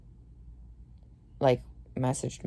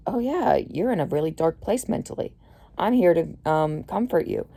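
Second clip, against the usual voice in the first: sugary mock comfort, a bit higher; mock sympathetic voice; 3 semitones higher than usual. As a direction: imitate a fake caring guy. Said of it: "They're like".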